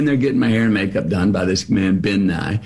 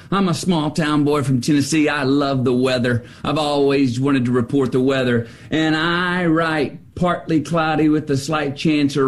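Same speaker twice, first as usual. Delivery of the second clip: lightly voiced Tennessee weatherman, higher, building up; weatherman's rant; 5 semitones higher than usual. Quitting weatherman rants at his editor, lightly voiced and higher. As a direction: play the fed-up small town boy pleading his case. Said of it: "He goes".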